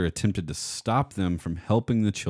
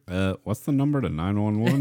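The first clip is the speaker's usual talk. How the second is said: Beavis and Butthead voice; 4 semitones higher, 3 dB louder than usual. Retold or imitated. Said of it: "was it Beavis and Butthead when he's like".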